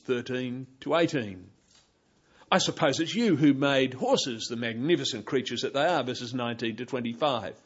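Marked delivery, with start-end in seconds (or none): 2.5-6.0 sarcastic. Pretend. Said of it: "tone of sarcasm".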